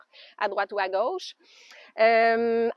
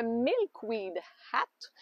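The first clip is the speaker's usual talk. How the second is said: English accent on titles; 3 semitones higher, much slower than usual. Real, not acted. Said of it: "mon accent anglophone quand je dis les titres".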